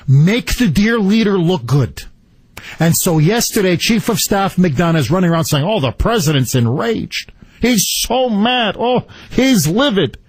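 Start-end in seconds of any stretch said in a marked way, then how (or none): 5.6-10.2 mocking quote. Host mocks chief of staff's claims.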